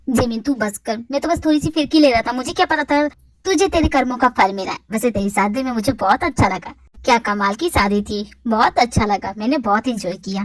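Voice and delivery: a hint of a joking male friend. Male character voiced lower.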